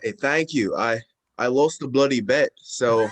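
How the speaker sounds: a deliberately bad, hammed-up British accent; terrible British accent. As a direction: lay on a clumsy mock British accent for a lost bet. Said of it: "speak in my very terrible British accent".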